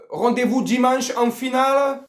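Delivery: Marseille accent. Shown as a demonstration. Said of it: "je fais l'accent marseillais".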